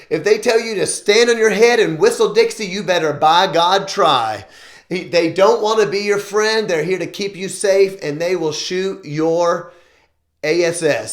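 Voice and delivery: emphatic Southern dad, lightly imitated; Southern accent. Dad telling his son to obey police, light Southern accent. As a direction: drive the warning home in a mild Southern accent. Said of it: "put on my Southern accent".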